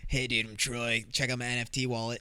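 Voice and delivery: lazy crypto bro swagger. Retold or imitated. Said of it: "Don't get the fucking Troys".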